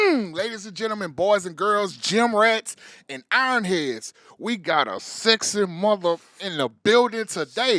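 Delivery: loud hype-man announcement. Acted. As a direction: work the crowd, big and loud. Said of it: "the best hype man".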